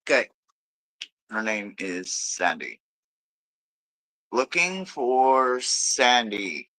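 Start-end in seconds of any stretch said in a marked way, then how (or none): 4.3-6.7 slow, drawn-out summons; calling a spirit. Real, not acted. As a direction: stretch each word, searching for someone.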